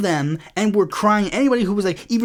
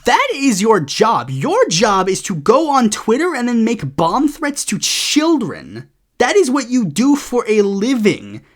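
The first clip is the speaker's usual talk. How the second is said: angry retort; 2 semitones higher, 3 dB louder, slower than usual. Retold or imitated. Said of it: "and it's like".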